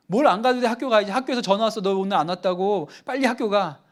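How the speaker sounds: loud scolding shout at a lazy son; angry mother yelling. Retold or imitated. Mother shouting at her son who skips school, furious. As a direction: snap at the kid to get to school now.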